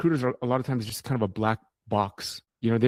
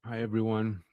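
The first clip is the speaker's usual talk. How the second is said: chewing while talking; 4 dB quieter than usual. Real, not acted. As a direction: mouth full while talking. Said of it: "can you hear me munching".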